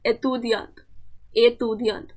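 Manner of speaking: एतुदियांत said the French way, with a nasal ending; French pronunciation. Shown as a demonstration. Teacher to students, modelling the French word एतुदियांत. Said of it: "यहाँ पे दिया है".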